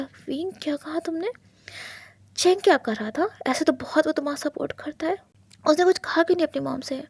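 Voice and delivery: husband furious on hearing Wing was slapped; angry husband. Acted. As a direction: demand it hotly. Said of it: "बहुत ज़्यादा गुस्सा हो गया".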